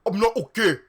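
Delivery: high, loud anguished cry; acted scream of misery; depressed scream. A narrator's reading. Draco answers Ebony, screaming depressedly. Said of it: "he screamed depressedly".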